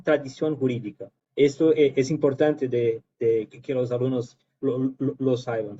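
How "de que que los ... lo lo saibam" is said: Spanish slipping into Brazilian Portuguese; Brazilian-accented portuñol. Real, not acted. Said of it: "perdón por mi portuñol".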